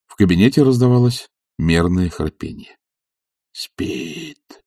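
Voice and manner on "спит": hushed murmur to himself; whisper. A narrator's reading. Servant checking on his sleeping master, whispered. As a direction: say it under your breath. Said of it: "прошептал он".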